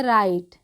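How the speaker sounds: राइट starting straight on R, "rait"; silent W. Shown as a demonstration. Teacher showing that W is silent, "rait" for राइट. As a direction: say राइट with no W sound. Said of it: "लेकिन हम इसका उच्चारण नहीं कर रहे".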